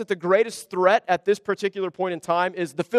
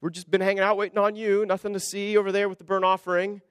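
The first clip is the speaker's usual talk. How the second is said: mock-casual cover-up. Saul greets Samuel, hiding the offering: mock-casual breezy. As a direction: play it innocent, nothing to see here. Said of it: "Saul going to Samuel and saying".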